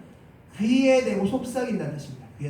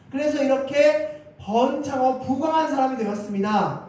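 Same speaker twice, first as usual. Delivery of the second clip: lightly acted confession, pitched higher; David; 5 semitones higher than usual. King confessing how the word blessed him, lifted testimony. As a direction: declare it as a proud testimony, voice lifted. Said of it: "다윗이 지금 이렇게 고백하는 겁니다".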